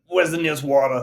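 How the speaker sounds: loud, high gasping tourist; mock tired tourist. Cohost mocking tourists worn out from walking, high and loud. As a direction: whine like a worn-out walker.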